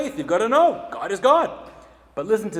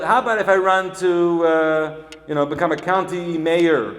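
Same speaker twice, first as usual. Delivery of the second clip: louder quoted rabbi; 7 dB louder than usual. Retold or imitated. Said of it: "He said".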